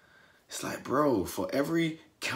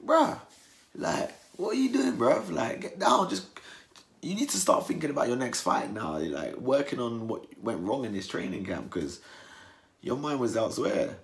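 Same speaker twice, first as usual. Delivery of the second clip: exasperated telling-off; 4 semitones higher, 3 dB louder than usual. Retold or imitated. Telling boxer off, imagined.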